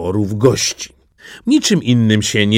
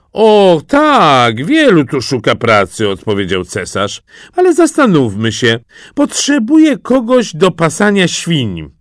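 loud, high-pitched pondering ruler; hearty emperor; 7 semitones higher, 5 dB louder than usual. A narrator's reading. Emperor answering a job seeker, hearty and loud. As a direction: proclaim it loudly, swinging up high.

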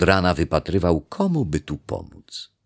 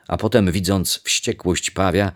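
usual speaking voice

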